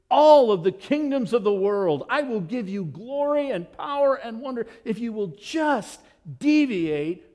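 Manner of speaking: hammed-up tempter's pitch; tempting Satan. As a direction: dangle the kingdoms like bait. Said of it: "what does he tell them".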